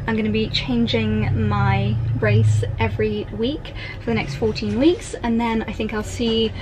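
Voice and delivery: lisping around plastic aligners; slight lisp. Real, not acted. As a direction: talk with a fresh-brace lisp. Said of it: "quite conscious of having something new in my mouth".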